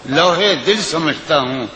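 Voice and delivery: lilting, sung-through recitation of a ghazal; poetry recitation. Acted. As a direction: recite it like at a mushaira. Recites a nazm.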